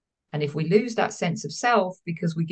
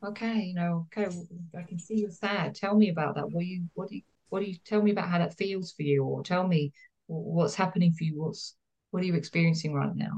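softer, coaxing voice of a caring parent; gentle attuned parent; 4 dB quieter than usual. Retold or imitated. A therapist voicing a caring parent to a sad child, soft and gentle. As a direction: ease the child into talking, softly.

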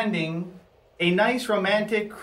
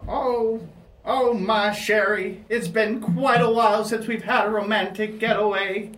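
put-on doting old husband, pitched up; Barry Ovaltine; 5 semitones higher than usual. Husband to wife before their birthday cruise, higher old-man voice. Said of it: "I'm Barry Ovaltine".

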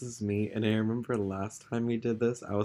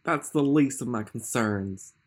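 shrill mutter; 3 dB louder, slower than usual. Acted. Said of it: "Matthews muttered shrilly".

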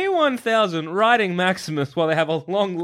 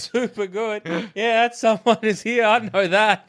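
lightly voiced eager dog, pitched up; dog's thoughts; 5 semitones higher than usual. Police dog losing focus over a ball and steak, lightly voiced. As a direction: play an easily distracted dog, higher. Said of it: "he might be like".

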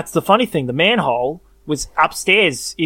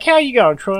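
manager; 7 semitones higher, 4 dB louder than usual. Retold or imitated. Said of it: "they're like".

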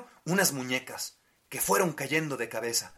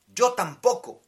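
higher rag doll voice; a doll speaking up, higher; too calm creepy doll; 8 semitones higher, 6 dB louder than usual. Acted. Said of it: "dijo la muñeca de trapo".

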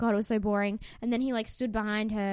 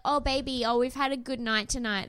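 romantic couple; 3 semitones higher than usual. Pretend. Pretending to be a couple after a good night, romantic. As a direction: pretend lovey-dovey, pitched up a little. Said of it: "me pretending to be a romantic couple".

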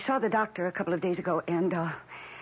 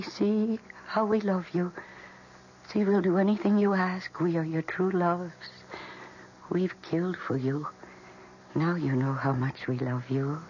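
plant voices. Acted. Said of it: "They seemed to be telling me".

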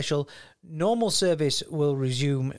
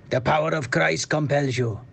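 put-on accent drifting Welsh. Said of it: "So it goes Welsh".

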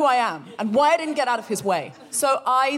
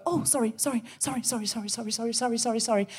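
meek apologizing; 5 dB quieter, faster than usual. Retold or imitated. Mock apologetic walker shrinking.

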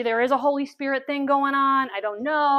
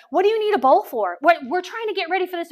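mock annoyed questioning, raised voice; irritated; 4 semitones higher, 5 dB louder than usual. Busy kitchen women questioning the bowl, irritated. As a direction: imitate a busy helper's exasperation. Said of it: "I have irritated the Marthas".

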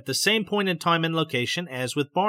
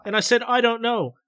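higher, startled questions; puzzled alarm; 7 semitones higher than usual. A narrator's reading. Betty asking her husband about the noise, mildly startled. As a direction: ask what the noise is, a touch alarmed.

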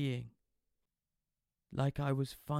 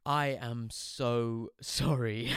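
nonchalant; much slower than usual. Acted. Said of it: "as nonchalantly as I could".

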